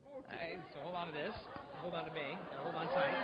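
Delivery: soft and close, nearly under the breath; hushed. Real, not acted. Hushing the volunteer while lifting him up. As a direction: murmur it gently to the volunteer.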